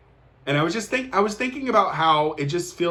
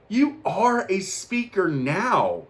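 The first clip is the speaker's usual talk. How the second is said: slow affirmation; 5 semitones higher, much slower than usual. Retold or imitated. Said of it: "I was like".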